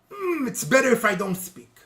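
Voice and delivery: mock-tactful refusal to answer; reluctant evasion. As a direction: act out pointedly declining to comment. Repeats the evasive answer as example.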